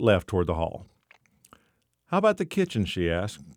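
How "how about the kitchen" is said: breathy high whisper; whispered woman's line. A narrator's reading. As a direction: hush it like a curious woman.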